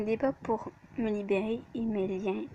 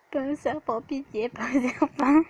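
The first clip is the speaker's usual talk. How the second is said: louder hammed-up plea, pas un serpent; beg, playing at fear; mock pleading; 7 dB louder than usual. Hero begging it is not a snake, mock fear.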